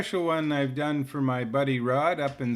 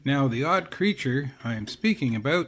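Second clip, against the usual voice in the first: lightly voiced mock wildlife presenter, louder bursts; nature documentary host; 6 dB louder than usual. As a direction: narrate a silly creature like a TV naturalist. Parody nature documentary narration.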